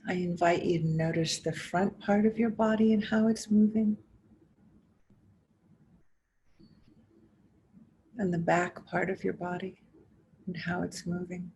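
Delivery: measured guiding voice with long pauses between phrases; guided meditation. Acted. Teacher inviting listeners to notice body and breath, guided meditation. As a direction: invite them gently inward, phrase by phrase, leaving space. Leads a guided mindfulness exercise.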